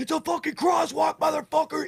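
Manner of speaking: very high, shrill screaming. Retelling a man crossing in front of his car, imitating a screaming man. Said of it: "he's screaming as he walks across".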